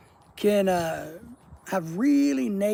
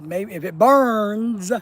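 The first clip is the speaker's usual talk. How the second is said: teasing; 6 dB louder, much slower than usual. Retold or imitated. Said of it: "I was making fun of you".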